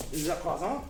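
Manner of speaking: playful French pronunciation; hammed-up French accent; mock French accent. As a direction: say it like a pretend Frenchman. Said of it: "I became French".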